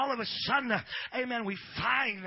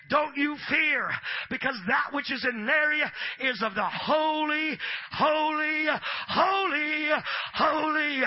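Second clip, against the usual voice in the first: loud, slow proclaiming shout; booming angel; 4 semitones higher, 5 dB louder, slower than usual. Retold or imitated. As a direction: build to a thunderous holy. Angel speaks, building shout.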